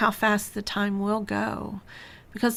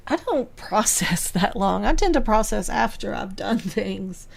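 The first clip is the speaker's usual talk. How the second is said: laughing. Real, not acted. Laughs while describing herself.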